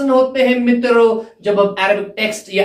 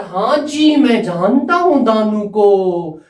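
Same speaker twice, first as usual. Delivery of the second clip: lightly voiced character answering; a hint of a character voice; acted reply. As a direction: play the other person's reply in a slightly put-on voice. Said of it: "उसको बोलता".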